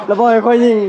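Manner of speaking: laughing while telling the hunting story. Real, not acted. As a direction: push the words out through a laugh. Laughing chat about going shooting.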